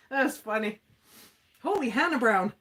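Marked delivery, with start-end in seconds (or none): 1.6-2.5 quoted catchphrase. Retold or imitated. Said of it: "'Cause I always say that".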